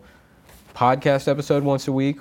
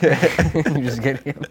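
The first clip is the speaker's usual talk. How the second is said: laughing; 5 semitones higher, 3 dB louder, slower than usual. Real, not acted. Laughing through the joke.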